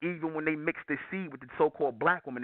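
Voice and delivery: ordinary talk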